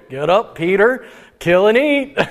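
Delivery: a lightly done Joe Rogan impression; a hint of Joe Rogan; bad Joe Rogan. Preacher voicing God as Joe Rogan, half-hearted impression. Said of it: "a voice sounds like, uh, a Joe Rogan".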